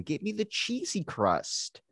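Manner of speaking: pleading for the cheesy crust in a coy voice; mock needy girlfriend. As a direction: wheedle for it like a spoiled partner.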